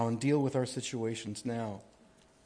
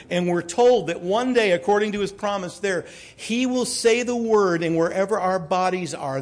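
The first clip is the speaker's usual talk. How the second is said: loud, raised preacher's voice; emphatic preaching; 5 semitones higher, 7 dB louder than usual. Real, not acted. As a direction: preach the promise with force.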